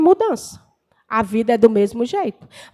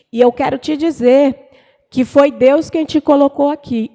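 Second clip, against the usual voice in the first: firm, louder preaching delivery; retold preacher's declaration; 5 dB louder than usual. Preacher giving a word to a struggling believer, retold with firm emphasis. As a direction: deliver it emphatically, as a message from God.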